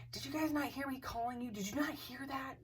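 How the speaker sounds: retold challenge, pressing for an answer; acting out disbelief; incredulous.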